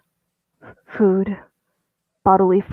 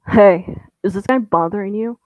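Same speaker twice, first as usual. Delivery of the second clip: sharp shout, then a fast question; calling out; 5 dB louder than usual. Acted. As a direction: call out to stop him. Stranger calls out on train.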